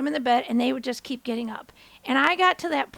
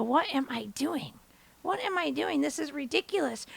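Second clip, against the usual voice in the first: lowered, incredulous self-questioning; softly talking to herself; 7 dB quieter than usual. Retold or imitated. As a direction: question yourself under your voice. Retold muttering to herself.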